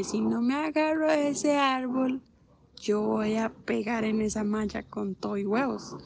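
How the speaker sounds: mild retold panic; panicked thought. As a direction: blurt it out in alarm. Panicking on brakeless bike.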